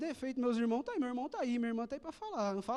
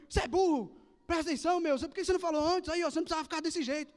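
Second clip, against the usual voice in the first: a father scolding his son, higher and sharper, fast at the end; 4 semitones higher, faster than usual. Retold or imitated. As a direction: tell the kid off like an exasperated dad. (pai bronqueando, voz mais aguda e rápida no fim)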